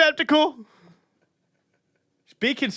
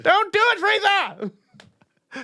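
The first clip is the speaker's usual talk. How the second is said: over-the-top cartoon cry; anime hero shout; 7 semitones higher, much slower than usual. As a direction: beg the villain at full voice. Anime yell.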